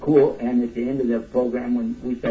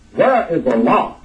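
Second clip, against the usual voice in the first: slow, pressing question; 3 semitones higher, 6 dB louder than usual. Retold or imitated. Brother asks a third time.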